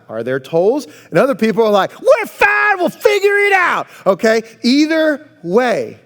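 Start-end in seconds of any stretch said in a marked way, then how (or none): 2.0-3.9 breezy high shout of no worries; Jamie Hugerwerf impression. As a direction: toss it off like nothing could go wrong. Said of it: "that's my Jamie Hugerwerf impression".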